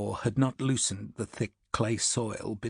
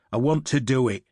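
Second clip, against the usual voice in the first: surly; 5 dB louder than usual. Acted. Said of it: "the first man said surlily".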